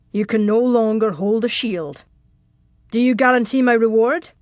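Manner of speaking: cold, firm demand, rising in volume; controlled, commanding character voice; cold and calm. A narrator's reading. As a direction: put the demand coldly, firmer on the question. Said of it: "said in a cold, calm voice".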